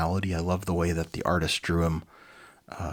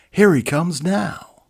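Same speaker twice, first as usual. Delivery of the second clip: alarmed; 11 semitones higher, 10 dB louder, slower than usual. Acted. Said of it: "interrupted Liquidator".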